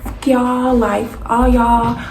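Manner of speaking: retold angry outburst. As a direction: curse them out in fury. Cursing out the family.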